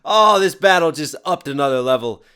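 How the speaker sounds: loud burst of real excitement; thrilled reaction. Real, not acted. Reactor hyping the rap battle, thrilled and loud. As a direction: burst out loudly, hyped up.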